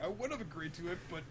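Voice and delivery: very high, wounded mock complaint; hammed-up hurt, rising to loud squeal; Law, jilted lover. Law complains he was not consulted, mock jilted lover. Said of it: "Like a jilted lover".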